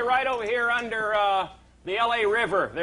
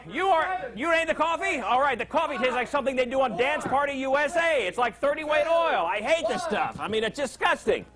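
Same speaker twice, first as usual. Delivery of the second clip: higher, hammed-up complaining; mock disgust; 6 semitones higher than usual. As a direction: sneer at the coffee for laughs. Host complaining about coffee, mock.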